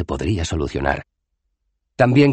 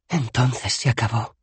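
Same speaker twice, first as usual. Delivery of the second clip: slow, raised-pitch sigh; sighed resignation; 7 semitones higher than usual. A narrator's reading. Bethan accepts they are trapped, sighing slowly. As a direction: sigh it out as if beaten. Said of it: "suspiró la chica".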